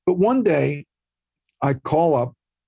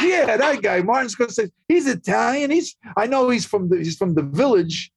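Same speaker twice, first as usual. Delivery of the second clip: much higher, a lightly voiced Italian mother; imitating his mom; 8 semitones higher than usual. Son voicing his mother pushing him to call Scorsese, lightly higher. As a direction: play your mom urging, pitched up.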